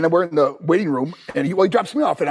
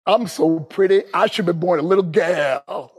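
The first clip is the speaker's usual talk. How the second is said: lightly hammed-up flamboyant wrestler; wrestling gimmick line. Wrestler's first line at the microphone, hammed-up showman imitation. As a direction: draw out the last word for show. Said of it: "Dusty gave me my first line ever".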